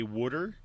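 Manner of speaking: "water" as "WOOD-er", first vowel as in wood; Philly "wooder". Retold or imitated. Co-host quoting Philly speakers, "wooder" for water. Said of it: "when I first heard people say".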